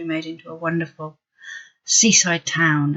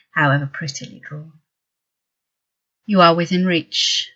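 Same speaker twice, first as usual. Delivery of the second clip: measured poem recital with long pauses; poem reading. Acted. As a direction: read it out as verse, weighing each phrase. Reads a poem.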